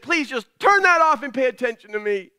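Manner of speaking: re-enacted fed-up plea; mock losing patience with wife; retold exasperation. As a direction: plead in mild exasperation. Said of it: "I can't contain myself anymore".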